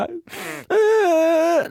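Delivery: drawn-out mock sob; hammed-up tearless wail; fake wail. Boy putting on tears for his father, fake wail. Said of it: "涙が出てねえんだ、".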